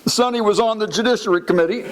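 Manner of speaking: high, strained mock weeping; Henry Hyde crying. Weeping chairman talking business at funeral, tearful. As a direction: blubber it for comic effect. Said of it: "while he's crying, he says this".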